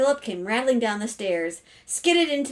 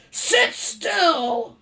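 high, loud snapped order; shouting; 8 semitones higher, 6 dB louder than usual. A narrator's reading. Father stopping his son leaving the table, shouting. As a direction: bark it to halt him. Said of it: "shouted Mister Carmody".

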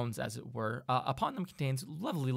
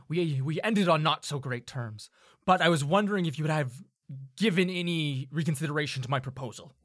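lightly voiced gruff tiefling; a hint of gruff, hesitant formality; gruff older man. Older tiefling seeking another word with Zelocles, mildly gruff. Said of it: "kind of gruff person".

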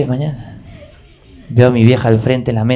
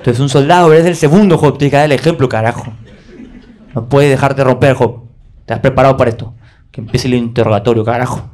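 self pep talk. Retold or imitated. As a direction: psych yourself up.

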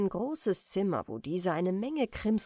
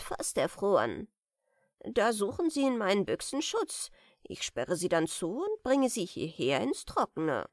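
lightly voiced merman, cosy and pleased with himself; cheerful old merman. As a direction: explain the cruel trick as a kindness. Merman explains his soul traps.

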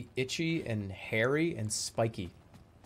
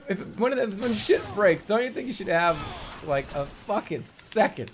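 raised, higher, slowed-down complaint; exasperated rant; 5 semitones higher, 3 dB louder than usual. Real, not acted. Player ranting when stuff breaks, exasperated raised voice. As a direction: complain loudly, leaning on the words.

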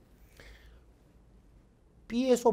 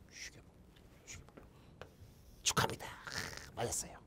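whispering; 9 semitones lower, 19 dB quieter than usual. Real, not acted. Whispered congratulation.

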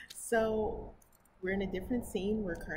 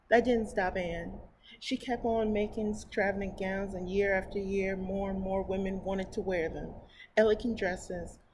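story narration; 4 dB louder than usual. Acted. Reading a picture book to her viewers, storybook narration. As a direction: read it aloud to children.

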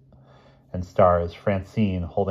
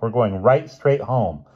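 slow, louder, emphatic decision; firm insistence; 4 semitones higher, 5 dB louder than usual. Acted. Helen refuses to continue the outing, firmly insistent. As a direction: lay down the law, drawn out.

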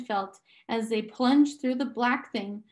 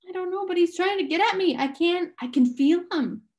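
fast, rushed panic, pitched up; words tumbling out in fear; panicked; 7 semitones higher than usual. A narrator's reading. Charles Wallace telling Meg he feels the man, panicked. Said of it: "his voice held panic".

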